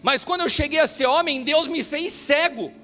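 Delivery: high, loud, driving sermon voice; fervent preaching. Acted. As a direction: preach it with rising fire to the congregation. Preacher builds to full force.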